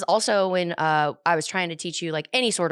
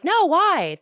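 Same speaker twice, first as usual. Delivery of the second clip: put-on drunken loud no; 11 semitones higher, 6 dB louder than usual. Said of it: "I'm like".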